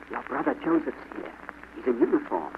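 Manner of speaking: softened, secretive voice; hushed whisper. A narrator's reading. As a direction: tell it quietly, as a secret. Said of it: "Then she said in a whisper".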